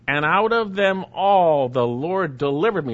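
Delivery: emphatic reading, hitting ALL hard; a punched, emphatic declaration. Acted. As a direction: declare it firmly, leaning on "all". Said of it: "Paul's saying it emphatically".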